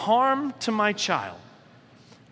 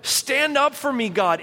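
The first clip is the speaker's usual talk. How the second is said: raised, louder pleading prayer; imploring David; 4 semitones higher, 3 dB louder than usual. Retold or imitated. David pleading with God against his enemies, imploring. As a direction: beg God to stand up for you. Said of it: "imploring this".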